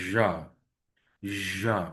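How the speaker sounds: ঝা with a buzzing vibration from inside; vibrated jha. Shown as a demonstration. Teacher demonstrating the buzzing ঝা to students. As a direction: buzz the ঝা from deep inside. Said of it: "এটা ভিতর থেকে ভাইব্রেশনের মতো হবে".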